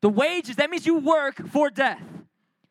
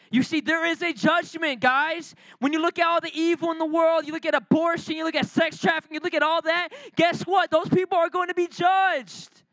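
higher and building, pressing the point; rising preaching intensity; 5 semitones higher than usual. Real, not acted. Preacher warning church of judgment, rising and forceful. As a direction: drive it home to the church.

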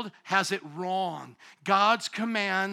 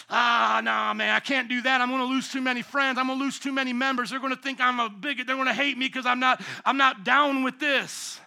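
mock compromising pastor. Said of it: "and go".

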